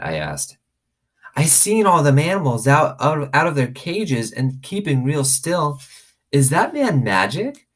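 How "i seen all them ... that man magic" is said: put-on high, wide-eyed small girl, slowed down; awed little girl asking about magic. A narrator's reading. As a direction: marvel at it like a little kid. Little girl Sweetie Pie.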